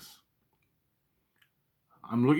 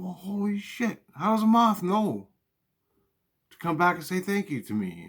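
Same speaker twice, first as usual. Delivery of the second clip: incredulous shout; 8 semitones higher than usual. Retold or imitated. Arguing with mom, high.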